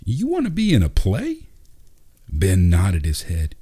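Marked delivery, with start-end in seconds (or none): 0.0-1.5 surprised high rise; bewildered. A narrator's reading. Dad bewildered by his son's wish, surprised high rise. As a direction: sound caught off guard. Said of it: "Terry looked bewildered".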